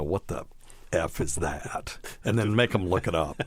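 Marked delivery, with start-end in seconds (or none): 0.0-2.0 slow, puzzled mock reaction; lightly acted confusion, drawn out; puzzled what the F. People puzzled by a weird diagnosis, slow mock confusion. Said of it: "make people go".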